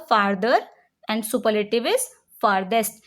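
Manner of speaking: slow, deliberate rule reading; slow dictation read. Shown as a demonstration. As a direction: read the rule out slowly for students to write. (धीरे-धीरे नियम पढ़ना)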